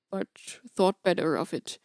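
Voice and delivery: ordinary delivery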